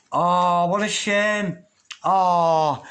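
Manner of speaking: high, loud mock sympathy; hammed-up pity. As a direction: coo over it like a sad child. Mock pity at a flipped card.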